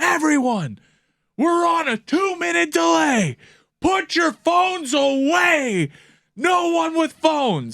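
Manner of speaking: mock, slow, drawn-out, very high yell. Retelling a friend standing on a bar stool: imitating Whitty yelling with bass. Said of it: "yells with bass in his voice".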